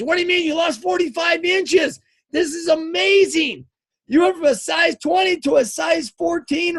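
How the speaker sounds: high, insistent amazed reaction; acted incredulous excitement. Trainer to disappointed client, incredulous and excited.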